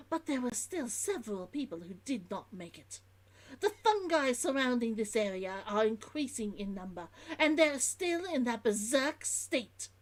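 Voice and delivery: put-on merchant's log in an Old London accent. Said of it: "Old London by the sounds".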